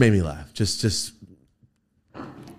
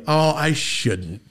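slow, drawn-out, higher mock reluctance; imitated coy refusal; 5 semitones higher, much slower than usual. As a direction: decline coyly, stretching the words out. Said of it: "That's what he did to me".

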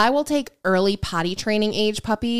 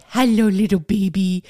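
cooing hello to a dog; baby talk. Retold or imitated. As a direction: greet a puppy in baby talk. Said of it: "baby talking the dog".

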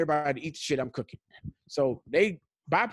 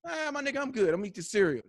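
mocking kid voice; 4 semitones higher than usual. Dad voicing his kids' reply.

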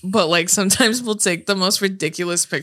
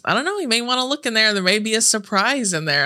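coy teasing; 2 semitones higher than usual. Retold or imitated. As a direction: play innocent while hinting at a surprise. Sister's coy hint acted out.

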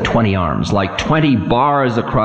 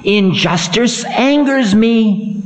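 stern Time; 12 semitones higher, slower than usual. Acted. Time voice continues.

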